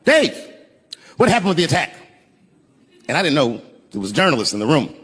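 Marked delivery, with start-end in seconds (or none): 0.0-2.0 mock heckler yell. Audience member yelling to the comic on stage, mock scream. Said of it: "someone in the audience screamed out".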